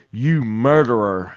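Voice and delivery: slow accusing call, half-hearted yell; retold yell. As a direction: imitate a heckler's holler, stretched out slowly. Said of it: "someone just yelled out".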